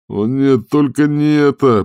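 high, slow despairing moan; groaning. A narrator's reading. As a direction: wail it wringing hands. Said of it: "простонал Дженкинс". (стон отчаяния, протяжно)

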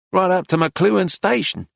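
high, proud declaration; exhausted dignity. A narrator's reading. Woman tells Arcady her country, with weary dignity. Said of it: "rousing herself with exhausted dignity".

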